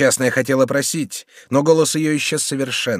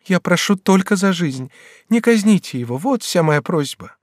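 a higher, lightly voiced young girl begging; young woman pleading; 7 semitones higher than usual. Bathilde kneels before the regent, begging, lightly voiced higher. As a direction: plead on your knees, voice lifted.

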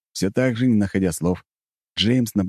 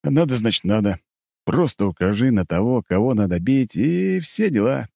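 sleepy bear voice; 5 semitones higher than usual. Acted. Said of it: "Сонный пчела-медведь".

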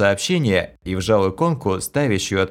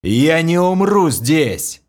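high, loud, slow yell; loud high roar at the undead witch; defiant roar; 8 semitones higher, 4 dB louder, slower than usual. A narrator's reading. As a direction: shout your defiance back. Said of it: "заорал я в ответ".

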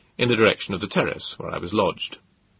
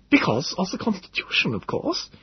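pedantic professor; 10 semitones higher than usual. Acted. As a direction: spell out the Greek, pedantic. Gödel character voice.

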